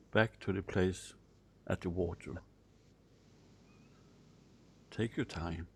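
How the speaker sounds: soft, unhurried guiding voice; hushed prompts with room to breathe; guided visualization. Acted. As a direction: gently guide them inward, leaving long pauses.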